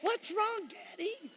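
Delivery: high, soft kiddie voice; little child. Acted. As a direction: pipe up timidly like a small child. Small children ask their father.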